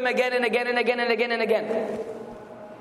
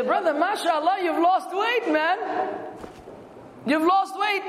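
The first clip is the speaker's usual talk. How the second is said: sarcastic; 4 semitones higher than usual. Retold or imitated. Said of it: "This is being sarcastic".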